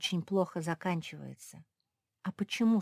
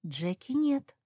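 whining; 7 semitones higher, slower than usual. A narrator's reading. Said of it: "заныла самая маленькая мопсишка".

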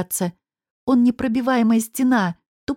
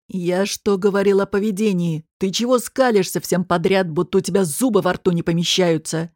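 gruff boss; 2 semitones lower than usual. Acted. Boss berates the waitress for smiling, lightly gruff. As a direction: scold her with contempt.

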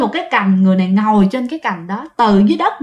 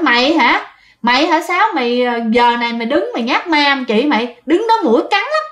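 retold challenge; 2 semitones higher than usual. Aunt calls to supposed sister playing ghost, retold challenge. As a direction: call her out, pitch jumping up.

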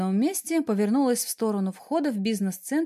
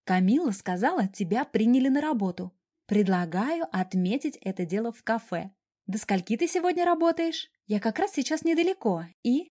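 blurting friend Dasha. Acted. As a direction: blurt out the invitation in one go. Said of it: "выпалила".

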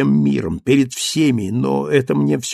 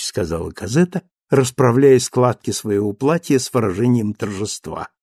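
ordinary delivery, nothing marked

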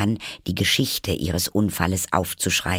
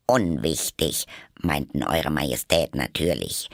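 respectful tone; 4 semitones lower than usual. Acted. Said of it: "in sehr ehrfurchtsvollem Ton".

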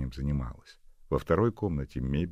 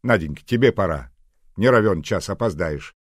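fussing nanny; 5 semitones higher, 11 dB louder than usual. Acted. Agasha hurries Nadya.

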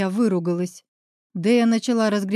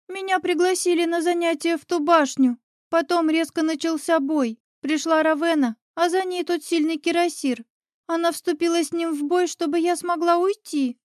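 put-on high, small child's voice on the verge of tears; a little girl telling it through sobs; child witch voice; 7 semitones higher than usual. A narrator's reading. Little witch tells the heroes how Raven fought, tearful. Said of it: "ведьмочка всхлипнула".

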